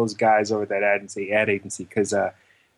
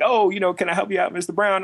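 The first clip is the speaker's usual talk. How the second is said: valet guy; 7 semitones higher, faster than usual. Retold or imitated. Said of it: "the valet guy's like".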